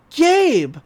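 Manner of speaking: high startled name-call; imitated flustered surprise; flustered mock greeting. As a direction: blurt it out as if caught off guard. Mabel greets her crush, retold.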